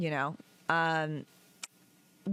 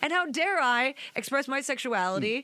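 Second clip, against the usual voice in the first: defiant rant; 5 semitones higher than usual. Retold or imitated. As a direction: throw the insult right back. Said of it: "being able to tell somebody".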